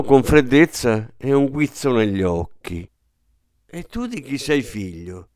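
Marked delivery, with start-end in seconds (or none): 3.7-5.3 softly and kindly, much softer; gentle question. A narrator's reading. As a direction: ask politely, almost amused. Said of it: "gli domandò con garbo". (domanda gentile e pacata)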